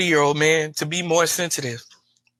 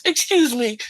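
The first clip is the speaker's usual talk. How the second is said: higher, choked little excuse me; mock upset woman; 7 semitones higher than usual. Imitating a woman about to run off and cry, higher pitched. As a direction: play her fighting back tears. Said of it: "and she goes".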